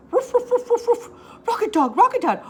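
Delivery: high, loud calling out; loud happy puppy shouting; excited dog calling. Acted. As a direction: call out to your friend. Dog calls his friend.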